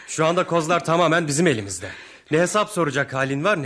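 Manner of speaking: menacing taunt. Acted. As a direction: sneer with power. Thug taunting victim.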